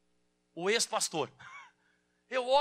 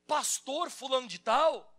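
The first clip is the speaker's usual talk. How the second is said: calling his name; 2 semitones higher, 5 dB louder, slower than usual. Shown as a demonstration. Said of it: "Fala assim".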